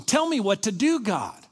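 high-pitched, urgent cry to God; desperate plea. Acted. Acts out parent begging God.

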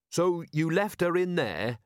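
slow, controlled question; very calm. A narrator's reading. Captain questioning the robbers, very calm. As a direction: ask it calmly and deliberately. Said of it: "still very calm".

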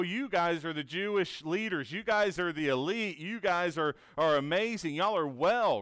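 light sarcastic paraphrase; sarcastic Jesus. Retold or imitated. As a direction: tease the elites with fake praise. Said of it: "kind of using sarcasm here".

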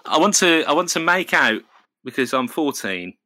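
ordinary talk

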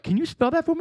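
high-pitched mock disbelief; mock high incredulous. Retelling her bar chat, a high mock baffled question. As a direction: squeak it out in disbelief. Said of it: "And I was like".

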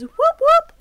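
high, loud cheering whoop; mock fan cheer. Imitating an AFL fan cheering a win, mock cheer. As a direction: cheer like your team just scored. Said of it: "that's what you say at your".

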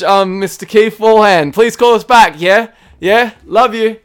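loud matey Aussie bloke voice; aussie tradesman. Acted. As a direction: lay on the broad Aussie larrikin.

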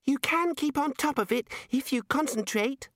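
very high squeak; squeaky child Arch-Chancellor. A narrator's reading. Child-sized Arch-Chancellor explains to Ponder, high squeak. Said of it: "the Arch-Chancellor squeaked".

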